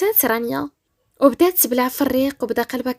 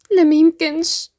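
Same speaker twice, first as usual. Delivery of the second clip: higher, firm cold refusal; 4 semitones higher, 6 dB louder than usual. Acted. Rania refuses Badr's offer of marriage, cold. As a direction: refuse him coldly. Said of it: "قالت ببرود".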